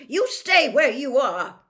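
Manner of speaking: slow, very loud, high snarl; furious mother's command; angry snarl. A narrator's reading. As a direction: snarl the order at your son. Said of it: "snarled Missus Weasley".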